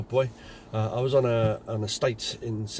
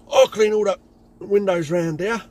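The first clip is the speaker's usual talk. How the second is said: aggressive threat; 9 semitones higher, 9 dB louder than usual. Retold or imitated. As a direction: lean in and threaten him. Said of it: "trying to be aggressive".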